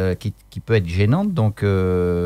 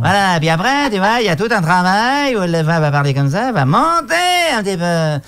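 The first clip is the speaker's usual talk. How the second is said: higher voice sliding into the nose; morphing voice; 9 semitones higher than usual. Shown as a demonstration. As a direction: shift gradually toward a nasal voice. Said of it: "tu vas la pousser à un moment donné dans le nez".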